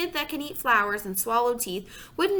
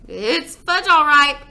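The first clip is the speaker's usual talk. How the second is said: excited repeat; 5 semitones higher, 11 dB louder, slower than usual. Acted. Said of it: "my brother repeated".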